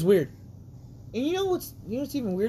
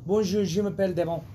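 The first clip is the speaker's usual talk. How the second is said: foreign accent in French; faster than usual. Shown as a demonstration.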